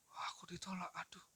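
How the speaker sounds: hushed, voiceless whisper to oneself; whispered mock heartache. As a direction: whisper it like a rejected lover's private lament. Acts out jilted viewer remembering rejection.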